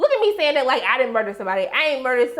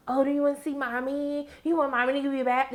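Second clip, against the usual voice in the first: mock Luke; 3 semitones higher, 6 dB quieter than usual. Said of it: "talking about".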